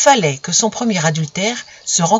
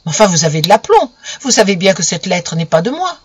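louder, outraged protest; indignant exclamation; 4 dB louder than usual. Acted. Camille indignant at Romain's nerve, exclaiming. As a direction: throw the words back at him. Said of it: "Camille s'exclama".

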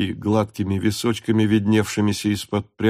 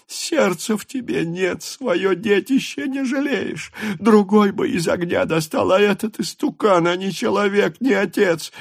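bitter reproach; 11 semitones higher than usual. A narrator's reading. Wife scolds her husband before a stranger, high and bitter. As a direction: shame him with every word.

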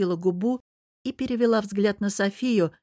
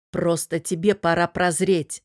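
sharp; 3 dB louder than usual. Acted. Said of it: "сказал я резко".

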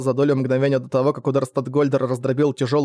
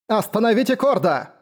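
raised, urgent choked plea; croaked cry; 7 semitones higher than usual. A narrator's reading. Isana calls for help against her attacker, croaking urgently. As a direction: croak it out in a higher voice. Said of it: "прохрипела Исана".

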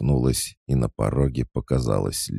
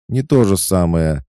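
sharp retort; 9 semitones higher, 8 dB louder than usual. Acted.

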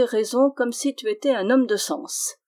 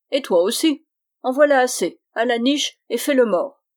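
bickering quarrel; 3 semitones higher, 5 dB louder than usual. Acted. Host and friar bickering at bedtime, loud and cross. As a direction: argue like an irritated old couple.

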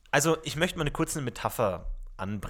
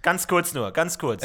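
kindergarten teacher voice; 4 semitones higher, 5 dB louder, slower than usual. Acted. Calling group together like teacher.

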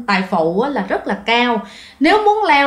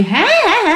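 higher-pitched mock "ha ha ha"; imitated ghostly laugh; 8 semitones higher, faster than usual. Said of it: "nghe được cái tiếng cười".

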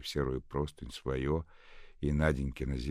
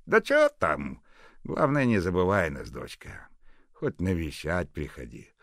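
louder, gruff fatherly; gruff kind neighbour; 4 semitones higher, 7 dB louder than usual. A narrator's reading. Fedot asking Nadenka to visit, gruff and tender. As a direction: speak gruff but kind.

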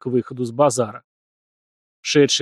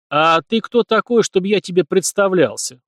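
scoffing snort; 6 semitones higher, 3 dB louder than usual. A narrator's reading. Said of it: "фыркнул парень".

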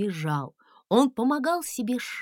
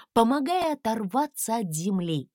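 ordinary delivery

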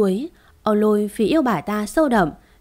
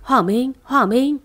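calling out; 4 semitones higher than usual. Acted. Lôi calling out to the wounded young man, rising cries. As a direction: call his name again and again. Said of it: "liên tục gọi tên cậu ta".

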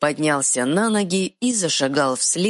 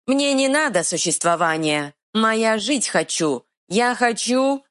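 troll growl; 8 semitones higher than usual. Acted. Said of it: "прорычал Эр".

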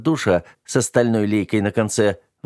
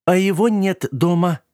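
much higher, put-on squeaky voice; thin fake voice; 11 semitones higher, 3 dB louder than usual. A narrator's reading. Robot fooling the dirt agent at the door, thin high disguise voice. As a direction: pretend to be someone else, pitched way up. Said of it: "ответил Мойдодыр тонким голосом".

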